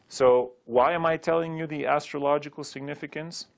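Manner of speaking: ordinary delivery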